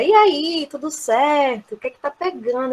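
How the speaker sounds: casual, easygoing greeting; relaxed, informal. Shown as a demonstration. Teacher voicing a casual translation of "what's up", relaxed. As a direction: say it like a loose, chummy hello. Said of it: "você vê que é mais descontraído".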